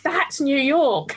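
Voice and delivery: slow, mock New York accent; imitating a TV detective's New York accent. British host imitating Law and Order characters, slow mock New York accent. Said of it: "they're going full on New York".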